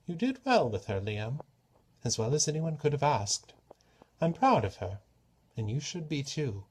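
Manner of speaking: the god turns serious with his daughter; a hint of the god Klepnos. Klepnos to Esme, lightly voiced and earnest.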